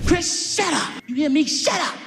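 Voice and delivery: high, loud scolding; acted angry mother; imitating mad mama. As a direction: shut the kid down sharply. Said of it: "My mama so mad at me".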